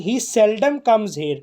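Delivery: very slow, word by word; deliberate classroom dictation pace; slow example reading. Shown as a demonstration. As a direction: read it out slowly so students follow. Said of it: "teacher reads example sentence aloud".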